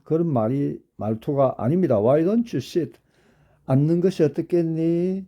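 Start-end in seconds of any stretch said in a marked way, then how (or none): 2.0-5.2 light, inviting "Why don't you sit?"; gentle suggestion. Shown as a demonstration. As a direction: offer it kindly, not demanding. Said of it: "하라고 권유를 하는 것이지". (부드럽게 권유하는 말투)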